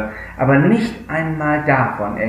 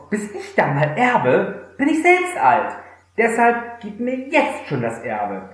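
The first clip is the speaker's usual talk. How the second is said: higher, mock-impatient young man; cheeky son imitation; 6 semitones higher than usual. A lightly voiced son nagging his father for his inheritance. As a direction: sound like a spoiled kid who can't wait. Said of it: "sagt er doch zu seinem Vater".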